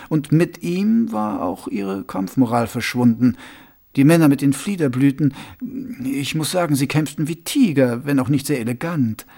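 sly, confiding ruler asking a pointed question; Vetinari voice. Acted.

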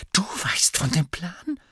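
high, incredulous question; indignant disbelief. A narrator's reading. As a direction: query it sharply, taken aback. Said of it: "einer empörten Miene".

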